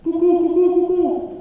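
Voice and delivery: very high, loud squeaky calling; a little mouse shrilling to wake someone; panicked mouse. Acted. The mouse wakes the sleeping rooster, very high and loud.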